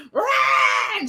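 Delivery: sudden high shouted Rah; imitating her own old combative outburst; combative roar. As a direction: bark it out like a battle cry. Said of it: "And I'd be like".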